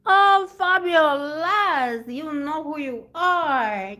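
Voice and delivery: slow, loud sing-song call to a viewer. Real, not acted. Streamer greeting a viewer in chat, with a slow loud call-out.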